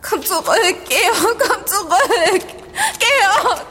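slow, sobbing call; tearful plea. Acted. Nolo calls after the vanished Georg, crying. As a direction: cry out his name in despair.

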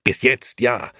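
high, loud retort; vehement. A narrator's reading. Nino answers his wife's objection, vehement. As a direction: hit back forcefully. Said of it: "antwortete Nino heftig".

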